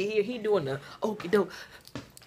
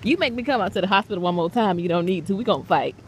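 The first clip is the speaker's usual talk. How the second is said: mock scolding; 3 dB louder, faster than usual. Scolding son playfully.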